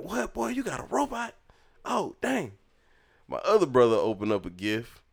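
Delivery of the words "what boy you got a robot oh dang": very high, squeaky disbelief; mock amazement. Kid reacting to brother's robot, amazed. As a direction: re-enact a stunned kid in falsetto.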